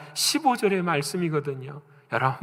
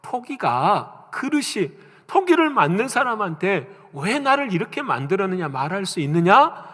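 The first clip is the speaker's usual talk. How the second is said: God's rebuke; 3 semitones higher than usual. Retold or imitated. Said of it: "하나님이 그들에게 말씀을 하세요".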